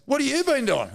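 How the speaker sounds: shocked coach. Retold or imitated. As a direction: imitate the coach's disbelief. Coach shocked at his weight.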